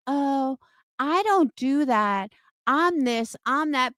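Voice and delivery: sing-song mock of the accused woman; mocking imitation. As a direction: mimic her innocent act with scorn. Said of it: "now she wants to act like".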